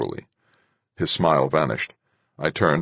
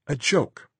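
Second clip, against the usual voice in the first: smiling; 11 semitones higher than usual. A narrator's reading. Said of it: "smiling a little".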